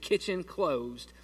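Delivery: slow, clipped "Kitchen closed" with no S on kitchen; curt kitchen closed. Retold or imitated. Grandmother shutting the kitchen for the night, slow and curt. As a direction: grandmother says "Kitchen" with no S, slowly and final. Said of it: "with the S".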